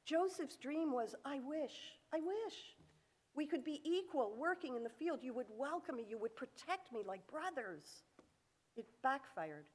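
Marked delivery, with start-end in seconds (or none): 1.2-8.0 softer, hushed longing; a gentle hope said almost to himself; wistful wish. Retold or imitated. Joseph longing to be equal with his brothers, softly wistful.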